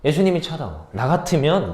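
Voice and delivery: usual speaking voice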